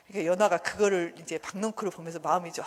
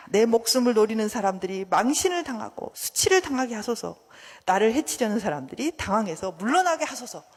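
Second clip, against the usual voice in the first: loud, fervent plea; impassioned prayer; 6 dB louder than usual. Acted. David praying to God against his enemies, impassioned. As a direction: pray it forcefully against your enemies.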